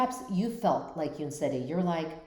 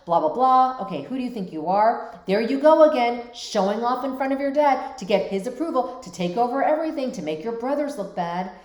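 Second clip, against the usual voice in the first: fast, pushy retelling of a bitter stepmother; quoting a resentful stepmother, hammed-up accusing; bitter accusing mother; 3 semitones higher, 4 dB louder than usual. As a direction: throw the accusations at her, mock-bitter. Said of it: "the mother is sounding very bitter, resentful, accusatory".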